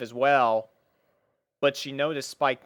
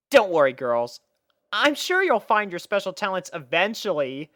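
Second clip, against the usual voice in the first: reassuring; 7 semitones higher, 3 dB louder than usual. Acted. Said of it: "with a reassuring smile".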